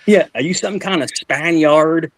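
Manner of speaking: slow, lightly imitated country father; country dad voice. Farmer dad repeating his question, slow mild imitation. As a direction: lean into the drawl a bit. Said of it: "That's how he sounded".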